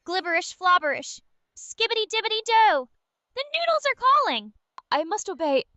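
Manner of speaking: possessed nonsense chant, rising; garbled nonsense. Pretend. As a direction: babble like your mind has melted into noodles. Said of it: "speaking in a garbled, nonsensical tone".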